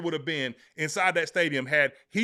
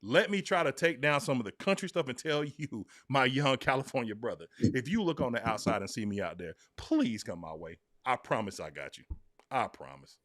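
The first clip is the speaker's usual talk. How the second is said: put-on laid-back California accent, lower and softer as it goes; hammed-up California accent, sinking lower and quieter to the end; 6 semitones lower, 5 dB quieter than usual. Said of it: "In my best version of a California voice".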